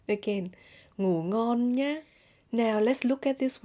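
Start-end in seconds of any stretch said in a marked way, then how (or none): 1.0-2.0 slow Northern accent, "nhá" climbing on a rising tone; Northern Vietnamese accent. Shown as a demonstration. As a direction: say it slowly, Northern style, lifting "nhá". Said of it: "in Northern accent, you will say".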